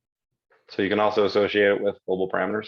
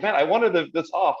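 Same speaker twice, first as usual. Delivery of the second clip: mock annoyance; 7 semitones higher than usual. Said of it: "And it's like".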